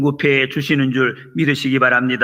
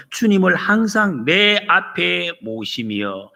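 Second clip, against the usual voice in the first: slogan shouted slowly; 5 semitones higher, slower than usual. Shown as a demonstration. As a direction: proclaim each word like a banner. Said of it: "이 슬로건을 우리 자신에게도 외치면서". (천천히 힘차게 외치듯)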